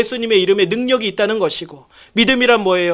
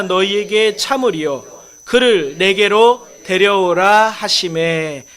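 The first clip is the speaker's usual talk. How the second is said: slow, forceful read-aloud of scripture; slower than usual. Acted. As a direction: lead the congregation in slow, measured reading. (느리고 힘 있게 성경 봉독)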